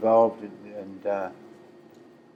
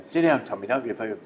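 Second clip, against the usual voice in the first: mild mock scream; 2 semitones higher, 4 dB louder than usual. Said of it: "Tom's wife's screaming".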